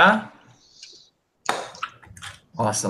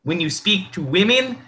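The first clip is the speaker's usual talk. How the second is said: mock Russian accent. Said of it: "Now you're turning into Borat".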